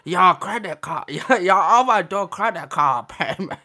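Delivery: slow mock Asian financier accent; hammed-up Asian accent. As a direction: put on an exaggerated Asian accent, slowly. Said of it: "sounds like your Asian financier".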